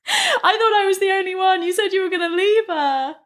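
high, laughing wail of betrayal; hammed-up heartbroken mistress; jilted lover.

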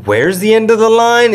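high-pitched, incredulous question; retold bewilderment. Traveler retelling shock at the airport line, bewildered. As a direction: ask it high, as if dumbfounded.

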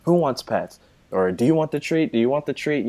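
put-on cooing at a good boy; baby talk to dog. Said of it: "We're like".

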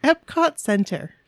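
giggling through "Epcot Center"; laughing. Real, not acted. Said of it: "I like how you just said Epcot Center".

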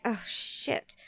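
breathy whispered oh shit under her breath; whispered curse. Retold or imitated. Mother late at school whispering her dismay. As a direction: hiss it so the kids won't hear.

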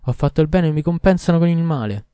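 loud, high, bitter cry of injustice; bitter outcry. A narrator's reading. Doctor Duban crying out to the king, bitter loud outcry. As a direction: fling it out, wronged and desperate.

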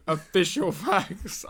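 official drawn out slowly with a laugh; mock-solemn Official facts; stressed official. Shown as a demonstration. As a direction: lean on Official, slow and amused. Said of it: "Unlike those unofficial facts".

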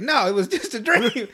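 high-pitched cartoon-kid protest; imitated denial. Retold Cartman brushes off his friends, high imitated denial. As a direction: pitch it up and insist.

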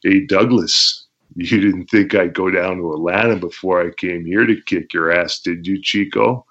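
a light hint of a Razor Ramon accent; taunting Shane Douglas as Razor Ramon; Razor Ramon impression. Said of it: "I did my Razor Ramon imitation".

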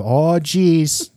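hammed-up Minnesota lilt; mock Minnesota accent. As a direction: do a stock movie Minnesotan accent. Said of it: "offended the state of Minnesota with".

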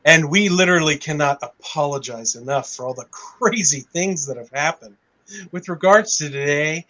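mock-cheerful official statement; sarcastic reading. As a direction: read it dripping with sarcasm. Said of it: "I don't know if I have enough sarcasm in my voice".

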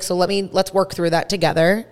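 retold calm, measured offer; soft and calm. Granddaughter retelling how she calmed the mean woman, soft and calm. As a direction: talk it through gently, like a patient mediator. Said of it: "I was talking just like this, really soft and calm".

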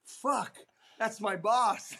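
panicked cuss breaking into laughter; mock panic through laughter. Caught dining with the rival, panicked laughing cuss.

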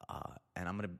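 normal talking voice

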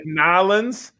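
"Nolans" for New Orleans, syllables run together; drawn-out "Nolans", consonants dropped; slurred local pronunciation. Shown as a demonstration. Host comparing Louisville to New Orleans, slurred local pronunciation. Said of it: "consonants involved".

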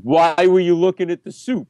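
mock-accusing demand for an explanation; accusatory. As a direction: interrogate like a suspicious stranger. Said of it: "very accusatory".

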